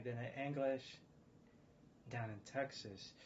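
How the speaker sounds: lightly imitated non-American English accent; put-on non-American accent. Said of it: "back to my American accent".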